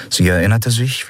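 usual speaking voice

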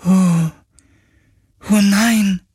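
high, stricken oh no; a ghost hit by bad news; dismayed ghost. Ghost learns its makers are dead, high and stricken.

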